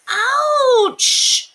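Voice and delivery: a hurt wishing well; well says ouch. A narrator's reading. Well hit by a penny, pained yelp. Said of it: "said the wishing well".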